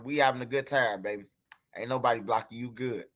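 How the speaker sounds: calm her down, it's okay; soft reassurance. Real, not acted. Soothing Sierra, calls her baby.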